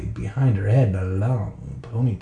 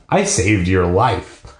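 tender; 6 semitones lower, slower than usual. Acted. Tender words to creature.

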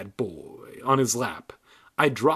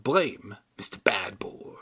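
whispered; 3 semitones lower, 3 dB quieter than usual. Acted. Ventriloquist aside.

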